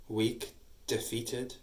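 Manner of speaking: cold quiet sneer. Acted. Parasite belittles the beaten sister, slow and quiet. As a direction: drag each word out with scorn.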